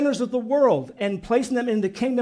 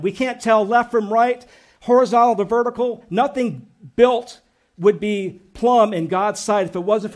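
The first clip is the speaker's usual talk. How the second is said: fired-up preaching; 4 dB louder than usual. Real, not acted. Pastor to congregation about Jesus the cornerstone, fervent and loud. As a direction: preach it out with rising fervour. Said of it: "And I'm getting excited".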